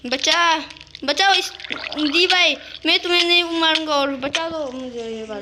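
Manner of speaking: high, loud, desperate begging; panicked plea for help. Real, not acted. Trapped player begging his friend to save him, panicked high cry.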